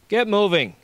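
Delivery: high, loud yell; yelled order. A narrator's reading. Guard waving Josh off, yelling. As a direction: yell it as a firm command. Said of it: "he yelled".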